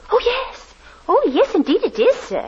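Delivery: high, gushing yes; bright high assent; eager agreement. Acted. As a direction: overeager landlady fawning. Landlady eager to please.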